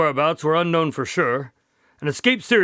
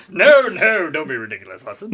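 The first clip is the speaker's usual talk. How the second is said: quoting the line; 4 dB louder than usual. Retold or imitated. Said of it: "that's the best line".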